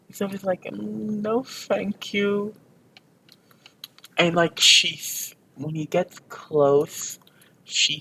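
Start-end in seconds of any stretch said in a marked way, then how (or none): 0.6-2.5 higher-pitched, drawn-out no-thanks; polite refusal. Retold or imitated. He turns down the offer, high polite refusal. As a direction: decline in a high little voice. Voices character declining an offer.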